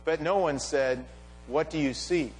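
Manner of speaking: measured reading aloud, phrase by phrase with pauses; scripture reading. A narrator's reading. Preacher reading the disciples' return to the congregation, measured scripture reading. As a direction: read the passage out deliberately, letting phrase ends fall low.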